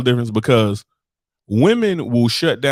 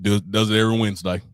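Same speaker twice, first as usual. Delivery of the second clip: low, badly faked Aussie voice; shitty Australian accent; 5 semitones lower than usual. Bartender explaining the man's habit, shitty Australian accent. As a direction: play the Australian barman, poorly accented. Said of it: "here go my shitty Australian accent".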